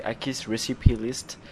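put-on "Akist Recipe List" in a lighter, slightly slow English accent; light mock English accent. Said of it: "avec mon accent formidable". (léger accent anglais moqueur)

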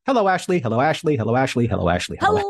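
lightly mimicked crowd of greetings, stepping down in pitch; imitated chat greeters. Host relays the chat greeting his co-host, mock chorus of hellos. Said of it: "pretty much everyone's like".

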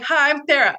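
flustered, stumbling over her own name; nervous fumble. Retold or imitated. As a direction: blurt the name out too nervous to say it right. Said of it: "I couldn't even say my own fucking name".

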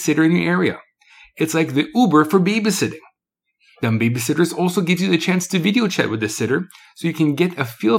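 upbeat commercial voice; ad read. Acted. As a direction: sell it like a radio spot. Reads ad copy for a business.

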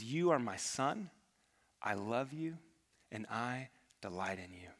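soft loving words sinking into a whisper; tender, fading to a whisper. Retold or imitated. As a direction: let it grow tender until only a whisper is left. Father speaking love to the Son.

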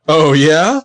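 mock-desperate, slow questioning. Hurt boyfriend asking who her new friends are, mock desperate. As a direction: ask it as a desperate boyfriend, drawn out. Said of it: "like, really desperately".

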